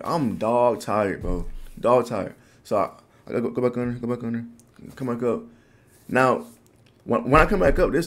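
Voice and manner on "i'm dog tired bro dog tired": slow, drawn-out retold complaint; dog tired. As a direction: stretch out the words in mild mock exhaustion. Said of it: "So I'm just like".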